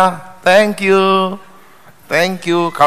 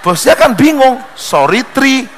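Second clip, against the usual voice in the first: laughing; 7 semitones higher than usual. Acted. Joke punchline, boss confused.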